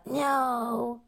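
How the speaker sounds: firm refusal. Retold or imitated. Host voicing Gary Blair's objection, firm loud refusal. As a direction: burst out with an emphatic refusal. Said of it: "he's quite firm on that".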